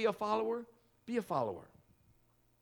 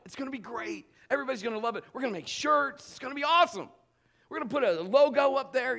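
building louder and higher with mock hype; hammed-up excitement; 7 semitones higher, 6 dB louder, faster than usual. Pranking the senior pastor about the name, in mock excitement. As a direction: oversell the big reveal. Hyping the youth group name.

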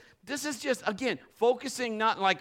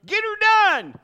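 Larry the Cable Guy catchphrase; 12 semitones higher, 12 dB louder, slower than usual. Retold or imitated. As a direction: holler it like a country comedian. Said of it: "Larry the Cable Guy".

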